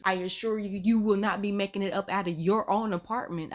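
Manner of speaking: deadpan mock threat; even, straight-faced warning. Threatening the joker over the apartment, straight-faced. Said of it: "I would have been straight faced like".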